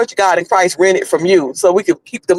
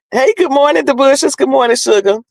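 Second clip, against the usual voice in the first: higher-pitched cheery hello; cheery greeting; 7 semitones higher than usual. Real, not acted. Vlogger greeting viewers joining the live, cheery and higher. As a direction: sing out a friendly good morning.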